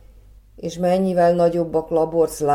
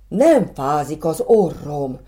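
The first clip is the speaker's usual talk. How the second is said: jumping for joy; 4 dB louder, slower than usual. Acted. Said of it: "ugrált örömében Orbán".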